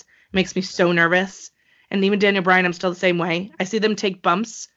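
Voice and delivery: usual speaking voice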